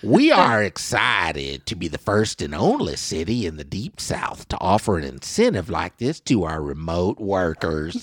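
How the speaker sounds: put-on slow, drawn-out Southern accent reading the quote. Host rereads the mayor's quote in a slow Southern accent. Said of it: "I sound Southern".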